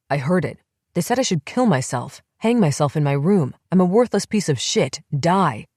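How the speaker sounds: growing agitation, rising as it goes; voice rising with each word. Acted. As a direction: let the voice climb word by word. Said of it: "Rick's voice rose more with each word".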